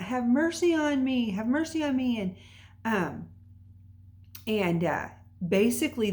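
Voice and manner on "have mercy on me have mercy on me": higher-pitched mock calling out; mild imitated yell; retold yell. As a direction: imitate a man crying out for mercy, without real volume. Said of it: "And he's yelling out".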